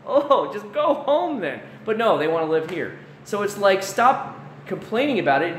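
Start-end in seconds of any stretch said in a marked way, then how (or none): 0.1-1.6 1 exasperated mock retort. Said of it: "you're like".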